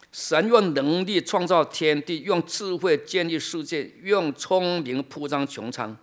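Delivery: slow, measured Bible reading; deliberate pulpit reading, phrase by phrase; scripture reading. Acted. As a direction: read the verse out solemnly, stretching the key words. Reads scripture aloud.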